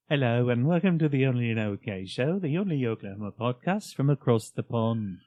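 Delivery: show intro. Shown as a demonstration. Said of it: "Please intro the show like that".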